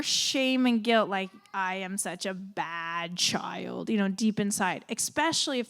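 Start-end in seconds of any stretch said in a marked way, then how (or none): 1.5-3.9 put-on ashamed child. Child's shamed inner voice.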